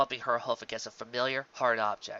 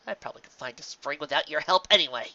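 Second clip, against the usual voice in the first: defiant chuckle; 4 semitones higher, 4 dB louder than usual. Acted. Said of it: "She chuckled defiantly".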